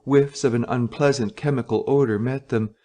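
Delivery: plain reading voice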